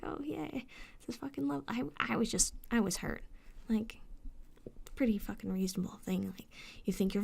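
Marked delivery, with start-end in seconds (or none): 0.0-1.6 sarcastic. Retold or imitated. Sarcastic aside.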